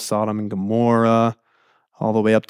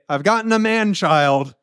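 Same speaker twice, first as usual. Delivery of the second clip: higher, playful proclamation; hammed-up exclaiming; 6 semitones higher than usual. Preacher quoting a funny translation, hammed-up exclaiming. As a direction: announce it grandly, for comic effect. Hammed-up quote he finds hilarious.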